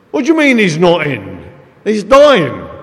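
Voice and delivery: mock the shocked nurse's outburst; astonished protest. Palliative nurse hearing the patient went out, loud disbelief.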